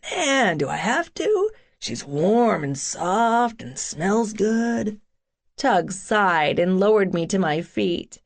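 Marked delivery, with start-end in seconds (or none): 0.1-5.0 a big lug begging to hold on; playful big guy. Acted. Tug reluctant, flirting.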